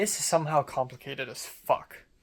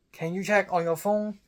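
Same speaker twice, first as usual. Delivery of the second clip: put-on high, louder Cantonese-accented English; raised Cantonese-accented question; 6 semitones higher, 6 dB louder than usual. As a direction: imitate an old woman's Cantonese accent. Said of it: "that's a Cantonese English accent".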